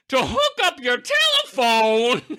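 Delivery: slow, high deadpan line to camera; imitating Alice Pierce's knowing take; comic take. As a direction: deliver it slowly, straight at the camera. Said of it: "she does a take".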